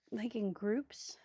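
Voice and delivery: speaking through the hiccups; slow words broken by hiccups. Real, not acted. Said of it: "I've got the hiccups again".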